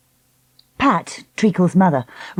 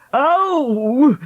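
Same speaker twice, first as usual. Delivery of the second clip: moan; 9 semitones higher than usual. Acted. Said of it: "Lassiter moaned".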